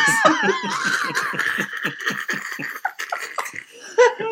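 high, wheezing laughter that runs on; helpless laughing fit. Real, not acted. Cracking up at his own impression, long high laugh. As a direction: laugh until you can't go on.

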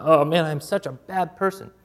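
mock self-blame, a touch lifted; condemned moralist. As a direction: lament your own failings, half-acted. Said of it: "look at them and feel condemned".

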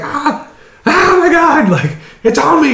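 high, loud squealing panic with a laugh; a retold girl freaking out over a snake, hammed up; mock panicked shrieks. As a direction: shriek like a snake is wrapped round you. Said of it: "she starts freaking out".

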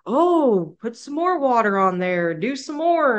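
sarcastic taunt. Retold or imitated.

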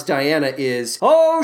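usual speaking voice

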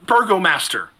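put-on high, startled old-lady greeting; flustered grandmother. Grandmotherly woman hails the Burgomaster, high and flustered. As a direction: she spots the Burgomaster and gets flustered. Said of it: "and says".

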